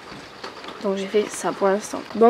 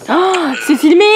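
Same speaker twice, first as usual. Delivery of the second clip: shouting; 6 semitones higher, 7 dB louder, slower than usual. Real, not acted. Warning that it is being filmed.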